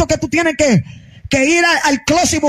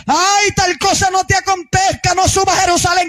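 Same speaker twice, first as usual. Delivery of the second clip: mock sentimental pleading; 4 semitones higher than usual. Peter begging Jesus not to go to Jerusalem, mock sentimental pleading. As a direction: lay on the sob story, mockingly. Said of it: "le saca el violín".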